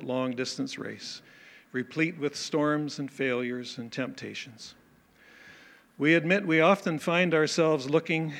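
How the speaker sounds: earnest, measured pastoral prayer voice; closing prayer. Acted. Pastor leading the congregation in prayer, earnest prayer voice. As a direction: pray aloud over the congregation.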